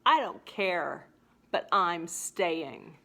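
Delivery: mock stubborn refusal to leave; defiant Kate. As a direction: dig in your heels, stubborn bride. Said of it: "And then she says".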